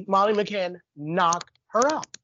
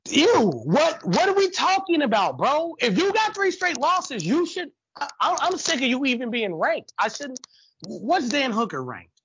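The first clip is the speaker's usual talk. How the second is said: worked-up rant; 6 semitones higher than usual. Real, not acted. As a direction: let the disbelief spill over. Ranting about fighters' rankings.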